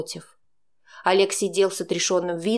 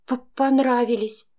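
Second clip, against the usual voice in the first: a stammered, breathed-out answer, a touch higher; frightened breath; 4 semitones higher than usual. A narrator's reading. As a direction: stumble on the first sound in fear. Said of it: "выдохнула я". (испуганно выдохнуть, заикаясь)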